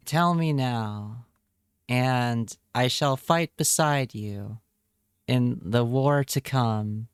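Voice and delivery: slow, solemn fantasy-knight pledge; mock heroic vow. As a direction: swear loyalty like a storybook warrior, hammed up. Mock epic vow about gnome.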